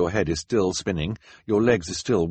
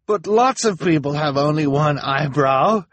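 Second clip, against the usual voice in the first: high, pleading protest; crying protest; 8 semitones higher, 6 dB louder than usual. A narrator's reading. Jacques protesting to the crowd, high plea. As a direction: protest desperately. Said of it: "Jacques cried".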